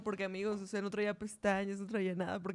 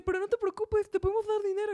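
imitating Lando; 9 semitones higher than usual. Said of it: "llega Lando y le dice".

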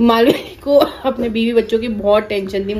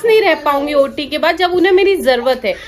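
higher, pleading with a touch of laughter; upset pleading; 6 semitones higher than usual. Retold or imitated. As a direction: press the staff to understand her plight. Wife pleads with hospital staff. (ऊँची, घबराई हुई गुहार)

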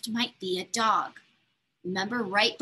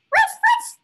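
high, loud puppy yip; dog bark; 10 dB louder than usual. Acted. Teacher barking as the dog in the box. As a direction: bark it like an excited little dog.

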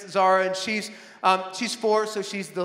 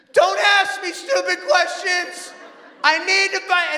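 put-on higher, louder irritated shout at the kid; angry snap; 8 semitones higher, 4 dB louder than usual. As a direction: cut the child off in a temper. Dad snaps at child.

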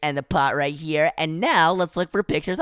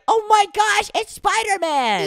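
high-pitched mock gasp of awe; starstruck amazement; 13 semitones higher, slower than usual. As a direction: squeal it like an awestruck fan. Acts out friends' awe at hero.

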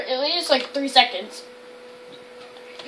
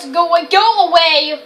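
alarmed shooing; 4 dB louder than usual. Real, not acted. Shooing game monster.

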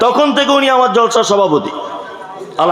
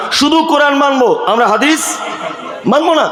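mocking quote; 4 semitones higher than usual. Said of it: "নিজেকে আহলে কোরআন বলে দাবি করছে".

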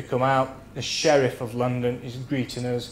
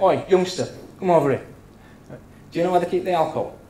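calling out; 5 semitones higher, much faster than usual. Retold or imitated. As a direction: summon the lad cheekily. Captain calling the lad over.

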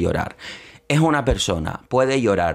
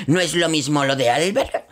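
imitating Terelu. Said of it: "Terelu otra vez".

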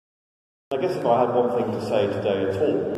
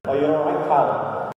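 Scouse greeting through gritted teeth, pitched up; Scouse accent; 5 semitones higher, slower than usual. Shown as a demonstration. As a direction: Liverpool accent, teeth gritted, from the back of the throat. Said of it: "with their teeth gritted, slightly from the back of their throat".

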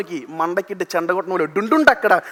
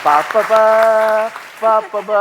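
Jayaram impression; slower than usual. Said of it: "ജയറാമേട്ടൻ നിൽക്കണ പോലെ".

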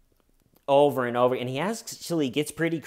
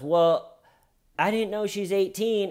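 higher, whiny lame excuse; 9 semitones higher, 3 dB louder than usual. Retold or imitated. Predator to the host, whiny pleading excuse. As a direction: play a caught man pleading ignorance.

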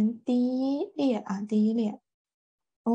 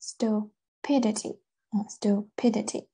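"stupidity" with main stress on -pi-; stress shifted later. Shown as a demonstration. Teacher showing the noun's moved stress, "stupidity" stressed on -pi-. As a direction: lean on the second syllable of "stupidity". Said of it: "重音也相对往后移了".

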